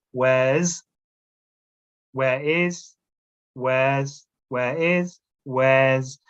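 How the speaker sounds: alternating "Where's" and "where is" slowly; contraction drill. Shown as a demonstration. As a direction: drill the contraction back and forth. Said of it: "you can use your fingers".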